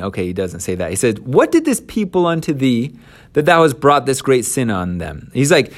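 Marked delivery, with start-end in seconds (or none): 1.2-5.3 accusing Moses. Acted. Moses confronting Aaron.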